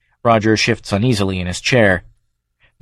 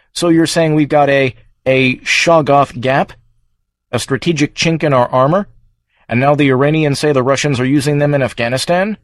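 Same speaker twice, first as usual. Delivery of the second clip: incredulous questioning; 4 semitones higher than usual. Acted. Congressman alarmed at weapons gap.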